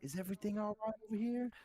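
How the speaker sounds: put-on high Southern-accented woman checking in. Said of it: "she has, like, that southern accent".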